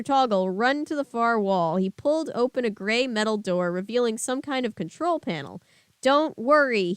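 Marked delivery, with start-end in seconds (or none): 6.0-6.9 called. Acted. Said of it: "he called to me".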